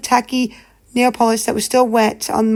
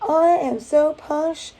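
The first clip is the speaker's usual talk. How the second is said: mock posh; 4 semitones higher, slower than usual. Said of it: "more of that".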